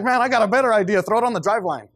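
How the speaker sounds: guy laughing while suggesting the prank; laughing mock advice. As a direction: cackle out the prank idea. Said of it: "I'm like".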